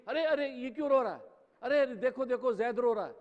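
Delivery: mother crying out. Retold or imitated. Mother hearing her baby cry, calling out in alarm. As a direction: call out like a panicked mother. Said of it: "اور ماں چیخی".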